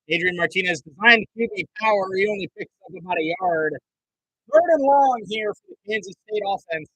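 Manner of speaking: animated broadcast play-by-play, British-free, American sportscaster. Acted. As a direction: call every snap like live TV.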